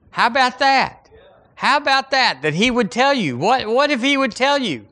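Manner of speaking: high, ringing wonder in the voice; excited preaching. Real, not acted. Pastor marvelling to the church, excited and high. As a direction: lift it up with delighted amazement.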